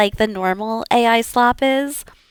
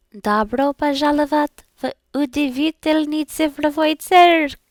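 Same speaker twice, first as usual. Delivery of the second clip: circus announcer; 6 semitones higher than usual. Pretend. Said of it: "quoting Digital Circus intro".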